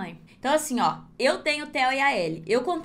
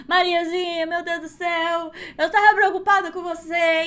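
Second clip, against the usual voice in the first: relieved mother; 5 semitones higher, 4 dB louder than usual. Acted. Worried mother voiced in story.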